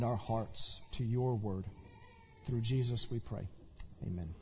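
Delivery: prayer. Acted. Leads congregational prayer.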